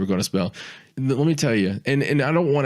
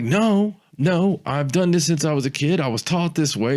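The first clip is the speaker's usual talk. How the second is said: stubborn insistence; 5 semitones higher than usual. Retold or imitated. Friend defending his wiping habit, high stubborn insistence. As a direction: insist like it's obvious.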